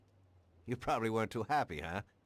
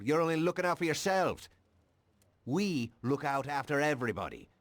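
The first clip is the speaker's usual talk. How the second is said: higher and louder accusation; indignant; 4 semitones higher, 4 dB louder than usual. Acted. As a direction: spit out the verdict on them. Cop condemns the mob.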